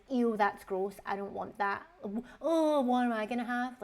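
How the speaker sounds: lightly mimicking a fussy child; a hint of a whiny grown man; mocking a husband who turns up his nose at dinner; mock childish whine. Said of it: "But being like".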